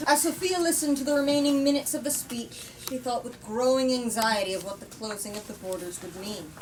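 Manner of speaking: reading the novel aloud to the group; measured storyteller read; story narration. A narrator's reading. Reading a book-club chapter aloud, story narration.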